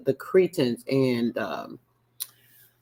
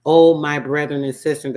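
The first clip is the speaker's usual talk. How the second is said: mock preacher; 7 dB louder than usual. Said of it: "reading preacher's sermon aloud".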